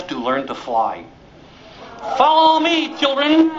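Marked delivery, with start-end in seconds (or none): 2.2-3.5 high, louder call to the little ones. Acted. Mother duck rallies her ducklings for flying practice, high call. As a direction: call the ducklings to follow you.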